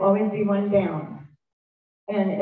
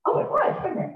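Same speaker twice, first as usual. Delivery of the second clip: high whispery mock husband voice; 12 semitones higher, faster than usual. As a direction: play the husband admitting it sheepishly, high and breathless. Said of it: "And he goes".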